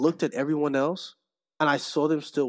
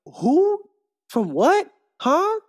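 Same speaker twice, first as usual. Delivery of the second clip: mock baffled high squeak; imitating a confused lady, high and baffled; 11 semitones higher, much slower than usual. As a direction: play her totally lost. Lady confused at FedEx driver.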